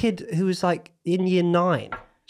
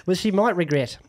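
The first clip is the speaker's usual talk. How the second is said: mock Australian accent; 2 semitones lower than usual. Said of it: "I'm gonna read it in my Australian accent".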